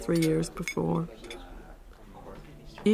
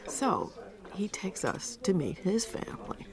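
whisper; 5 dB quieter than usual. Acted. Wife recalls meeting his family.

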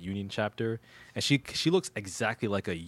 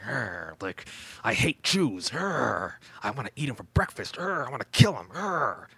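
growling, hammed-up madman rant, rising higher; cartoonish insane Klansman; 3 semitones higher than usual. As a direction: snarl it like a borderline cartoonish lunatic. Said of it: "and that's how he sounds".

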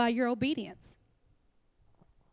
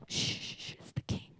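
mock shushing; 5 semitones higher, 10 dB quieter than usual. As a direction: hush the room in a whisper. Mock hushing in heaven.

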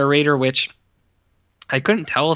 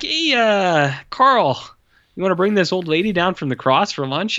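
mock crew member calling; 6 semitones higher than usual. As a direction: shout a casual question upward. Crew calling to director in anecdote.

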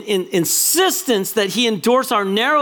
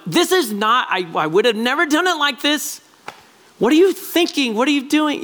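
rising, pitched-up complaint to God; exasperated protest; 5 semitones higher than usual. Retold or imitated. Pleading with God, pitched-up exasperated protest. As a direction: throw up your hands at God, higher.

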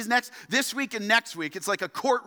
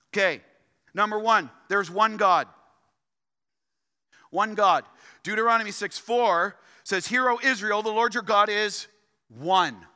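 full-force preaching. Acted. Pastor drives home doctrine to the congregation, forceful preaching. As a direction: preach it out to the whole room.

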